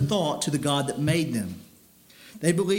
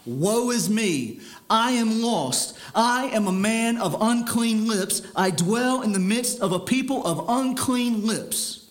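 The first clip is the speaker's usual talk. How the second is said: slow, higher, anguished lament; crying out in woe; 4 semitones higher than usual. Acted. Preacher voicing Isaiah's cry of woe before God, slow and anguished. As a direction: cry it out like a broken prophet. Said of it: "Isaiah cried out".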